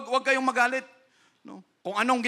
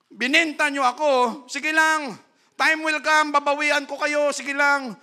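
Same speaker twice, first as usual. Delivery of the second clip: higher, louder vengeful taunt; vengeful threat; 7 semitones higher, 6 dB louder than usual. Acted. Preacher acts a bitter Joseph threatening his brothers, with loud vengeful anger. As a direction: threaten them, promising payback. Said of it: "kung si Joseph reklamador".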